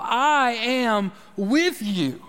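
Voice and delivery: very slow, each word placed on "I am with you"; slow, weighty. Shown as a demonstration. Preacher slowly repeating God's promise to his listeners. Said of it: "telling them again and again".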